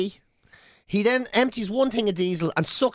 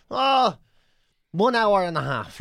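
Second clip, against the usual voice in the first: imitated agent's answer; slower than usual. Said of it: "And she was there".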